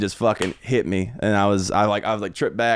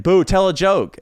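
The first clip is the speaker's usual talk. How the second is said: higher-pitched imitated heckler; mock heckle; 7 semitones higher, 4 dB louder, slower than usual. Heckler interrupting the comic on stage, mock heckle. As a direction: jeer it like a drunk audience member.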